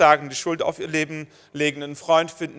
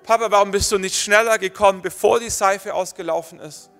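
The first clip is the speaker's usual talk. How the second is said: put-on little boy's voice; 4 semitones higher, 3 dB louder than usual. Father voices his young son.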